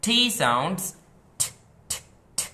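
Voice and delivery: ঠ, ঠ, ঠ said short, breathy and loud; aspirated t sound. Shown as a demonstration. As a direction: pop out each aspirated ঠ. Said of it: "এভাবে সবাই ইশারা দেখাবে". (জোরে শ্বাস দিয়ে ঠ ঠ ঠ)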